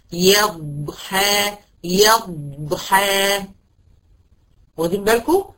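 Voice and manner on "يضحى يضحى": "يضحى" drawn out slowly with a long ض; very slow, stretched ḍād. Shown as a demonstration. A teacher slowly models "يضحى" for her students, stretched. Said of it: "عايزة الضغطة دي أحس بيها".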